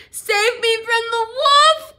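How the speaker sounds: high, loud, slow shriek; shrieking plea. Acted. Boy shrieks for rescue, high loud slow plea. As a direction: shriek it out in panic. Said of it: "shrieked Willie".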